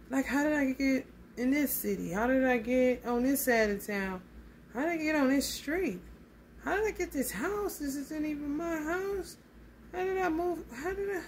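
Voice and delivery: bewildered. Retold or imitated. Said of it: "Like, what the fuck?".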